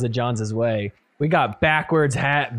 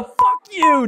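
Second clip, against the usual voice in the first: mock curse; 14 semitones higher, 5 dB louder than usual. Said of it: "He gives a".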